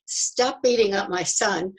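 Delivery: urgent mother's mock yell across the courtyard; retold yell. Mother-in-law yelling from the window at the men, a loud slow call. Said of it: "yelled out the window into the courtyard".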